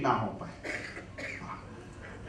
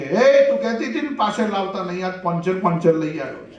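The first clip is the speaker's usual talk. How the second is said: louder, higher excited call to the wife; 3 semitones higher, 4 dB louder than usual. Retold or imitated. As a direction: shout it proudly across the house. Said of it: "પેલી બૂમ પાડીને".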